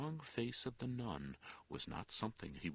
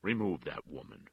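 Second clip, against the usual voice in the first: ordering; 8 dB louder than usual. A narrator's reading. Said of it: "the judge ordered".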